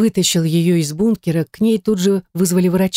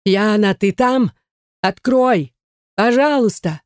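desperate plea; 4 semitones higher, slower than usual. A narrator's reading. Husband pleading through locked door.

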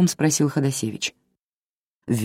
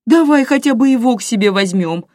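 higher, louder begging; pleading; 9 semitones higher, 6 dB louder than usual. A narrator's reading. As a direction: beg her husband. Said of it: "с умоляющим видом к мужу". (выше, громче, умоляюще)

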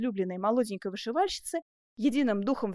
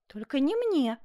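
mildly raised, higher retort; exclaiming; 4 semitones higher, slower than usual. Acted. Seamstress corrects her lover's confession, exclaiming. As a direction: interject it pointedly. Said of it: "воскликнула Жервеза".

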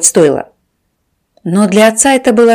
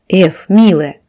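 tender; slower than usual. A narrator's reading. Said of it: "отец ласково погладил дочь по щеке".

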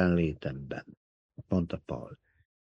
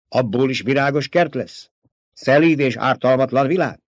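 louder and higher, a scornful echo; mocking question; 5 semitones higher, 5 dB louder than usual. A narrator's reading. The emperor mockingly echoes Paul's promise, scornful disbelief. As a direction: fling his own words back at him in disbelief.

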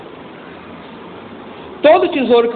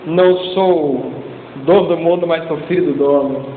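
mock car sticker slogan; 3 semitones lower than usual. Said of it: "Vou botar lá um adesivo".

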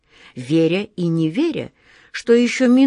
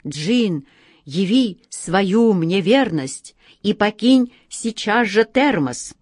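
сдержанное волнение; 3 semitones higher, slower than usual. Acted. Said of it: "с трудом сдерживая волнение".

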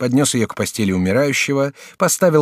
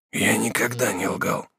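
dying prisoner, slow; 5 dB quieter, slower than usual. Acted. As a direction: weigh each word like a dying man.

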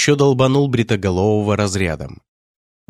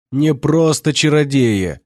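smirking; 6 semitones higher, slower than usual. Acted. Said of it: "усмехнулся он".

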